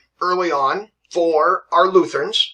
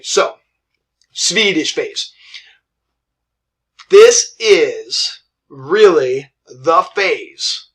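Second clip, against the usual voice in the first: put-on Swedish accent; 5 dB louder, much slower than usual. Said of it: "my Swedish accent".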